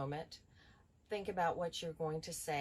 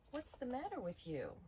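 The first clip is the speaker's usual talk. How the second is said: concerned; 5 semitones higher than usual. Shown as a demonstration. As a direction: ask it with real concern. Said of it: "So another example might be".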